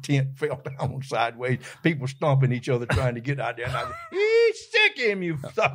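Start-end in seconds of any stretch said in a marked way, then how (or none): 4.1-5.8 mock yell. Retold yelling at bear scene.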